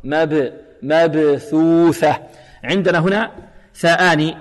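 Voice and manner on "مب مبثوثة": slow مبثوثة with echoed b; bouncing qalqalah. Shown as a demonstration. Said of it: "اضطراب في المخرج". (قلقلة واضحة في باء مبثوثة)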